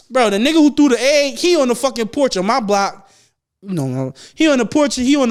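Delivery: blurting out that the egg thrower is right there; excited alarm. Real, not acted. Shouting news of the egg thrower.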